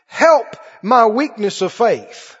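slow, heartfelt plea, lightly acted; retold tearful cry. Father crying out to Jesus for his boy, retold tearful cry. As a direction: read it as a drawn-out cry of faith. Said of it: "he gave a cry with tears".

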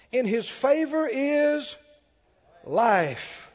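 emphatic psalm reading building to a loud hallelujah; rousing pulpit proclamation; preaching scripture reading. Real, not acted. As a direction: declaim in measured phrases, swelling at the end.

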